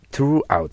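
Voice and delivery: "throughout" begun like "tsu", tongue between the teeth. Shown as a demonstration. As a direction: say "throughout" high, with a bitten th instead of su. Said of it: "と言った方が通じます". (throughout を「す」でなく「つ」の感じで)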